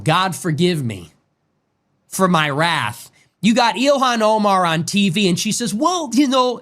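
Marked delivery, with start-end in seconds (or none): 5.7-6.6 high, mocking Somali accent. Mocking a congresswoman on TV in a Somali accent. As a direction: sneer it in a put-on Somali accent. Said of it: "with her fucking accent".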